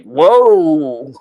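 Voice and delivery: a laughing, stunned "whoa". Retold or imitated. Daughter stunned by her father's words, laughing whoa. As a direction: breathe it out through a laugh, amazed. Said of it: "And I was like".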